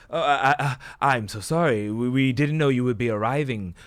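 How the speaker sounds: loud, stammering apology; taken aback and apologetic; flustered apology. Acted. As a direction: stumble over yourself apologizing. Guard apologizes on recognizing Faustus.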